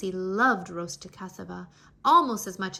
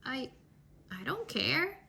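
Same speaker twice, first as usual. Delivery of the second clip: stammering; 3 semitones higher, 4 dB quieter than usual. Acted. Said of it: "Anansi stammered".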